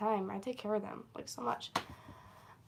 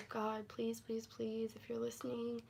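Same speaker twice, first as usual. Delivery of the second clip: retold prayer; 8 dB quieter than usual. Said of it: "I literally prayed to God".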